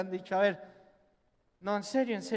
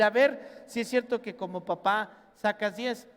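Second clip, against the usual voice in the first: mock challenge; 6 dB louder than usual. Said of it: "ellos te van a decir".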